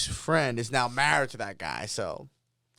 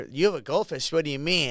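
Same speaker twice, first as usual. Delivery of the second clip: a bit louder, insistent question; second take, louder and more pushy; louder puzzled repeat; 3 semitones higher, 4 dB louder, faster than usual. Retold or imitated. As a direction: press her for what he meant. Girl asks again, everyone listening.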